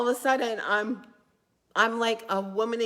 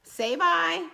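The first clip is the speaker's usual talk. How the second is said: high coaxing call; 9 semitones higher, slower than usual. Real, not acted. Coaxing kids toward the camera.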